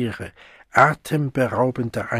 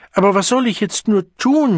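much higher, louder despairing wail; 10 semitones higher, 5 dB louder than usual. A narrator's reading. Siegmund wailing in despair at the locked door. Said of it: "jammerte Siegmund verzweifelt".

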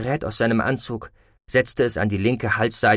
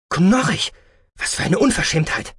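high-pitched, affronted outburst; Med Formax, indignant; 8 semitones higher, 4 dB louder than usual. A narrator's reading. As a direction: take offence, pitch jumping up. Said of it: "empörte sich Med Formax". (empört, mit erhobener Stimme)

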